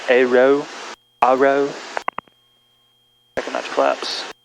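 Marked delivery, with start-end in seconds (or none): 0.1-1.7 "aero" tried out as the British say it; British-style aero. Shown as a demonstration. Pilot tries how the British say "aero", sounding it out. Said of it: "They say it aer".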